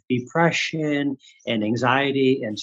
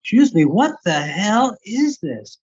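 high, indignant retold disbelief; incredulous outburst; 7 semitones higher than usual. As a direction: act out being utterly baffled. Acting out his shocked reaction.

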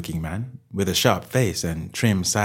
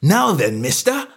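high, loud challenge; angry stallholder bristling; burst of anger; 9 semitones higher, 5 dB louder than usual. A narrator's reading. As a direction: square up to a nosy customer. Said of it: "provoked a burst of anger".

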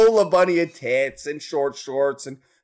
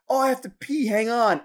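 put-on decoy girl; 4 semitones higher than usual. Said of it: "she'd go".

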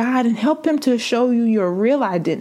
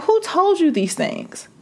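a gently voiced God, pitched higher then settling; lightly voiced God questioning; voicing God; 4 semitones higher than usual. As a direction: ask it as God would, tender but firm. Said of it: "And God is saying".

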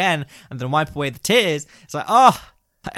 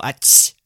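breathy ach sneeze; 5 dB louder than usual. Retold or imitated.

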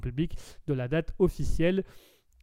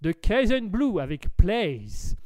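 slow, English-accented artist name; slower than usual. Shown as a demonstration. Host naming the next artist, best English accent. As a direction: savour the title in an English accent. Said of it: "avec mon plus bel accent anglais".

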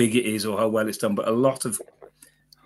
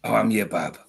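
put-on Black Country accent. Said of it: "'cause it's like".

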